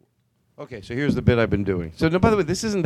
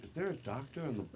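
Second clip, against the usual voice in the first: much softer, murmured repeat; quiet echo to a friend; 20 dB quieter than usual. Retold or imitated. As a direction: question it under your breath to a friend. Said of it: "me and my friend were like".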